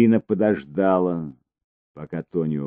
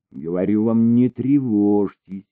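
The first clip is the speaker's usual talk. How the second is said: reassuring; 5 semitones higher, 6 dB louder than usual. A narrator's reading. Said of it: "успокаивающим тоном".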